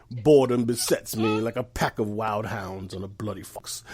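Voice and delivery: like you are really feeling it; with attitude. Real, not acted. Bored man repeats his phrase of the week, with attitude. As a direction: recite the phrase with tude. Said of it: "He said it with tude".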